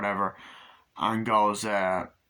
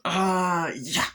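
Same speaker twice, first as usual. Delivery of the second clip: high raspy Chucky grunt, louder; voiced Chucky; 8 semitones higher, 3 dB louder than usual. Chucky reacting to the axe, high and loud. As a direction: growl it like the killer doll.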